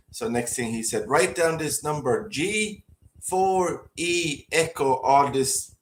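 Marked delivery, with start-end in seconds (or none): 1.1-5.0 very slow, rising imitation of fake American; mock American accent, spaced out; bad American accent. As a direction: dictate slowly in a put-on American accent. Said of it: "this, the worst American accent ever".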